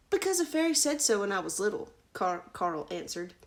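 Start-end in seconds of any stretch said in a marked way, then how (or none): 0.1-1.9 put-on young prince. Carl's voice, child prince.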